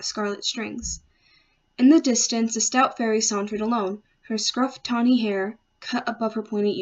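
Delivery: measured poetry reading, phrase by phrase; poem recitation. Acted. Student reading their sea nymph sonnet aloud, measured recitation. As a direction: read it as verse, lifting line openings and settling at the ends.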